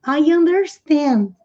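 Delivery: I understand dito devagar e claro; demonstração lenta. Shown as a demonstration. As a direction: fale devagar, como modelo para os alunos. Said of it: "mas eles costumam usar no presente". (devagar, bem articulado)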